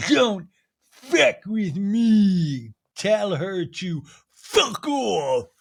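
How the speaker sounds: high, very drawn-out mock threat; hammed-up diva meltdown, swelling into loud bursts; Meredith impression. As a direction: stretch each word into an outraged wail. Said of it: "this is when she goes".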